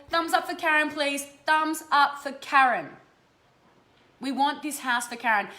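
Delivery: rally the whole chat; rallying call. Real, not acted. Rallying viewers for Karen.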